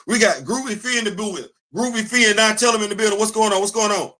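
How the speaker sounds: fast, high-pitched hearty greeting; lively shout-out. Real, not acted. Host greeting an arriving viewer, lively shout-out.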